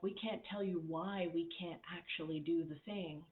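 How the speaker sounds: a touch of cowed, anxious staff; fearful employees. Retold or imitated. Scared employees explaining to the boss, timid. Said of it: "in such a fear state".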